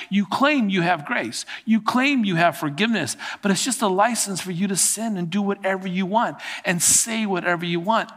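a pastor begging his people to stop; pastor pleading. Acted. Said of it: "This is a pastor pleading with his people".

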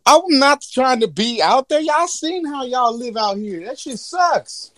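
hammed-up whiny genie; indignant genie. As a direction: protest being pushed into the human world. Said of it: "He gonna be like".

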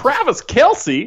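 high, slow Southern drawl; exaggerated Southern twang; Southern accent. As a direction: draw the name out like a hammy Southerner. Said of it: "sound better with that accent".

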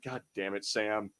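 mock world-weary complaint; weary grumble. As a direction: grumble it like a put-upon old friend. Imagines weary actor grumbling.

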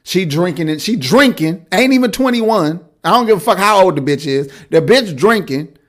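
high, loud, laughing rant; excited rant. Real, not acted. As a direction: get worked up and laugh through it. Hyped, laughing rant about being twenty-one.

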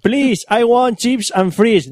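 put-on slow, high English with a Spanish accent; mock Spanish-accented English. Spaniard ordering food in London, mock Spanish-accented English.

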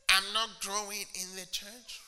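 softly, mopey churchgoer whining; mock sulky complaint. Preacher mocking a sulky churchgoer, mopey whine. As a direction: imitate a sulky member grumbling. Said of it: "They say it with an attitude from their nose".

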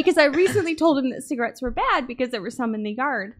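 ordinary delivery

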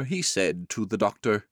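ordinary delivery

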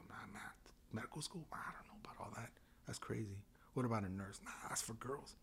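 hushed, half-muttered self-talk; dismissive musing. Retold or imitated. Man talking himself out of careers, quiet dismissive musing. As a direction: think aloud softly, waving each idea away. Retold inner doubts about careers.

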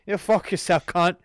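loud cocky Aussie insult; Australian accent. Acted. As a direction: cuss them out in broad Australian. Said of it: "Australian accent. It's gonna be fucking amazing".

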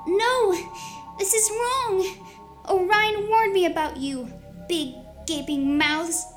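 high, loud protest; shouting. Acted. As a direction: yell in defiance. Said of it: "She shouts".

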